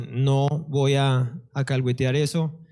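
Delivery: slow, low, firm refusal; understated anger, measured and deliberate; restrained anger. Retold or imitated. Boyfriend refusing to indulge his crying girlfriend, restrained anger. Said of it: "también muy enojado, le dije".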